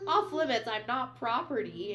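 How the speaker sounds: mildly heated quoted retort; retold getting mad. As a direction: push back as the offended girlfriend. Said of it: "she starts getting mad".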